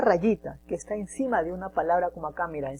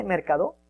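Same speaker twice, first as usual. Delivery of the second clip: mercado with the stress moved off CA, rising; wrongly accented mercado as a doubtful question; misplaced stress. Shown as a demonstration. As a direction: ask it with mercado deliberately misstressed. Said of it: "¿se pronuncia bien mercado?".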